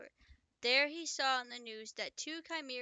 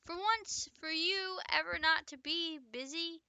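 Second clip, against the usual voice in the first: high, raised-voice complaint; mock shout; 6 semitones higher than usual. A narrator's reading. Doctor complaining to her departing colleague, mild acted shout. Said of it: "shouted Doctor McCain".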